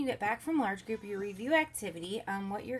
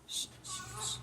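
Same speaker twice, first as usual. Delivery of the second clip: hushing; 12 semitones higher, 7 dB quieter than usual. Real, not acted. Hushing a crying baby.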